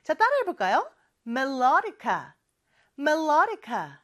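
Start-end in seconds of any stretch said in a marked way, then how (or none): 1.3-4.0 melodica said slowly as meh-LO-di-ka, stress on LO; stress on the second syllable. Shown as a demonstration. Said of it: "이음절에 강세가 있죠".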